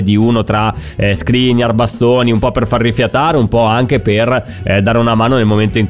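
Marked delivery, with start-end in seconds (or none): none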